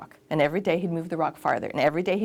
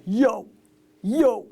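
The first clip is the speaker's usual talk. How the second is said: lightly voiced laid-back surfer dude greeting; surfer guy; 4 dB louder than usual. Shown as a demonstration. Voice coach demonstrating a surfer guy's voice, light touch. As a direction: toss off a casual surfer "yo", barely changed. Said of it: "say you're a surfer guy".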